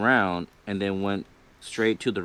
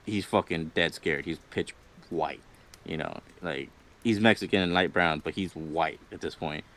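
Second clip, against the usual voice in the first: scared friend; 3 semitones lower than usual. Retold or imitated. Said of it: "my friend's like".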